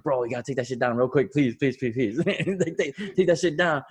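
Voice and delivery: quick, pleading rush; retold urgent plea. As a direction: beg him hurriedly, piling up the pleas.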